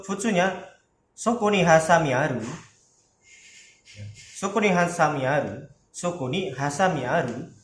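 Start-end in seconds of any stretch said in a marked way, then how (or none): 1.2-2.4 "aru" lifted as a question; rising question intonation. Shown as a demonstration. Teacher modelling the casual question form, raising "aru". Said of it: "pokoknya naik nadanya". 4.1-7.5 "aru" tipped up at the end; rising question intonation. Shown as a demonstration. Teacher repeating the casual question for students, rising on "aru". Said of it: "pokoknya naik nadanya".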